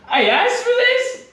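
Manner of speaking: high, dismayed whine; regretful cuckold. Acted. Cuckold who asked for this, whining in dawning regret. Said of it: "cuckold experiencing post, post-nut clarity".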